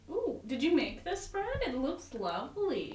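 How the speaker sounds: butter her up sweetly; mock flattery. Flattering Jenny about bread.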